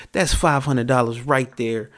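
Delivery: ordinary talk, nothing marked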